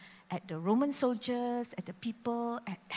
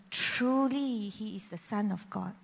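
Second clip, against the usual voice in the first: awed and sincere. Retold or imitated. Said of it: "he said differently".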